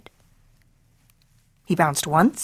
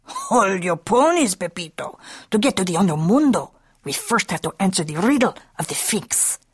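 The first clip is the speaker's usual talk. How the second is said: Don Diego. Acted. Don Diego, biggest pup, speaks.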